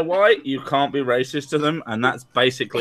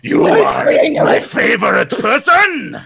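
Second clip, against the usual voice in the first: Japanese man; 7 semitones higher, 3 dB louder than usual. Retold or imitated. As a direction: shout tender words like a samurai. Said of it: "And the men are like".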